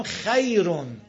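"خیرون" with a lightly fronted a gliding to y; correct minor imala. Shown as a demonstration. Teacher models the word, "خیرون" with slight tint. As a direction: say "خیرون" with a hint of y in the vowel. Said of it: "الان اینجا گفتم".

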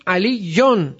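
"علیون" slow and separated, ending -yon; "علیون" as ali-yon, last syllable held; nominative ending. Shown as a demonstration. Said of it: "مرفوع شده".

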